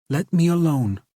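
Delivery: put-on high, grumbling young woman; grumbling girl. A narrator's reading. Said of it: "grumbled a muffled voice".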